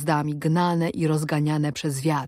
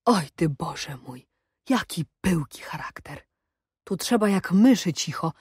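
grumbling. A narrator's reading. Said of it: "narzekać zaczął".

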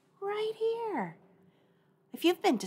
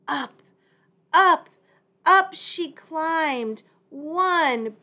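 rising excitement; 6 semitones higher, 7 dB louder, slower than usual. A narrator's reading. Storybook climbing build.

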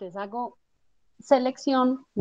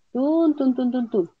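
playful tun tun; 4 semitones higher, slower than usual. Real, not acted. Tracing the boundary while clicking.

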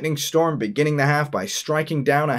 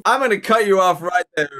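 loud interruption; 6 semitones higher, 5 dB louder than usual. Real, not acted. Host cuts off vile remark.

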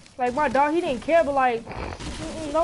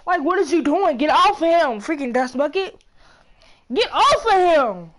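scolding; 4 dB louder than usual. Real, not acted. Scolding brother again.

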